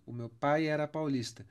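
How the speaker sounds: pai era said as one syllable, paj ɛɾɐ linked; elision. Shown as a demonstration. Teacher demonstrating joined vowels to students. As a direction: run pai era together. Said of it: "Eu pronuncio essas palavras como elas fossem uma só".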